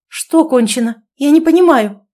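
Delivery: high, loud agitated cry; frantic outburst; nervous exclamation. A narrator's reading. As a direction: panic rising as she fails to grasp it. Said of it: "нервно воскликнула".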